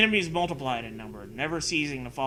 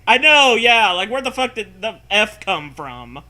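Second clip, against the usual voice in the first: loud, high, exasperated outburst; exasperated shout; 7 semitones higher, 11 dB louder than usual. Real, not acted. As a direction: blow up at the silly game. Outburst at the game.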